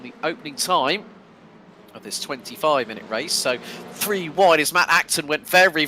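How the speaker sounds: brisk live play-by-play; lap-one race caller; race commentary. Acted. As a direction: call the race as it unfolds.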